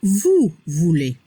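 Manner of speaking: "vous voulez" slow and low, EZ sounded as E; pronunciation model. Shown as a demonstration. Teacher showing learners the vosotros form, slow low "vous voulez" ending in E. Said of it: "La pronunciación".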